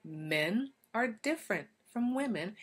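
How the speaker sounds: slow, leaning hard on "are"; "are" weighted in a slow, emphatic line; stressed, slow statement. Shown as a demonstration. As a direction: drive the point home, word by word. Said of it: "this very real fact".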